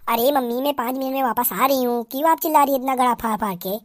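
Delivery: soft, quick daughter-in-law voice; a lightly voiced bride whispering her secret plan; sneaky young bride. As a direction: slip out quietly before anyone notices. Bride answering mother-in-law.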